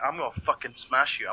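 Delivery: Australian hard-man threat, lightly acted; mock threat in an Australian accent. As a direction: play a thuggish Australian brother. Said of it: "What is up with the Australian accent?".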